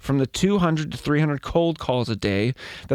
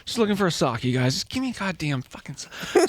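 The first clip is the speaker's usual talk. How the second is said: Dobby voice; 3 semitones higher than usual. Pretend. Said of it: "That was a really good Dobby".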